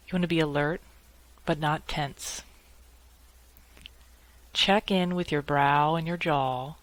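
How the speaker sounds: calm meditation guide with long pauses between phrases; unhurried, measured guidance, leaving space after each instruction; guided meditation. Acted. Lawyer guiding colleagues upset by nasty emails, calm guided meditation.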